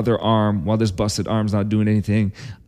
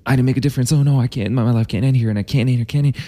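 rage; 4 semitones higher, faster than usual. Retold or imitated. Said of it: "almost like a rage of".

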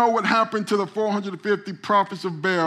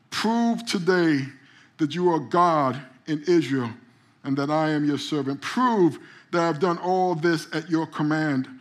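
solemn prayer; 3 semitones lower than usual. A narrator's reading. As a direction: lower voice, measured phrases. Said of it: "and he prayed".

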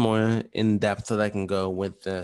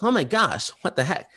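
amazed; 8 semitones higher, 3 dB louder than usual. Retold or imitated. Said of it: "And it's like".

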